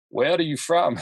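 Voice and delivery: lightly voiced Arnold-style questioning; Arnold Schwarzenegger. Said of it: "Arnold Schwarzenegger".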